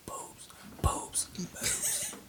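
squeaky, whispered silly boobs; silly voice play. Pretend. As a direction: play with the word goofily. Silly vocal play with word.

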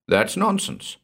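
high-pitched, dismissive scoff; snorted. A narrator's reading. Narrator dismisses Gordon's talk of retribution, snorting. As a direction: scoff at the idea. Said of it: "I snorted".

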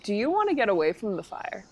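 gentle offer. Acted. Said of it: "I'm like".

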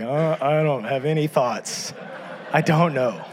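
slow, empty-headed mumble; blank dude. Retold or imitated. Husband answering his wife, slow and blank. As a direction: play the guy with no thoughts. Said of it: "You're like".

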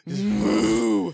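mock rhino call; rhino impression. Shown as a demonstration. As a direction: do your best rhino noise. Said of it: "That's my best rhino impression I got".

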